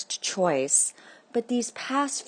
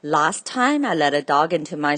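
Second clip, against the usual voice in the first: gruff butcher; 8 dB louder than usual. Acted. Angry butcher letter read aloud.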